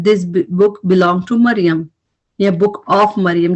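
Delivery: very slow, word by word; slow dictation of example phrase. Shown as a demonstration. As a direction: spell out the example slowly. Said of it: "slow example phrases".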